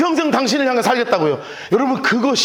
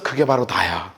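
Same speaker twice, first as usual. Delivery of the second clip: much lower and softer, gently; tender embrace voice; 4 dB quieter than usual. Retold or imitated. 예수님이 맹인을 꼭 안아주며, 아주 낮고 부드럽게. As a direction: murmur it as if holding him close. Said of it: "꼭 끌어안아 주시면서".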